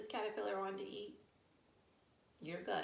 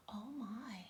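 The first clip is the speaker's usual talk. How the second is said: gasp; 4 dB quieter than usual. Acted. Caterpillar spots food.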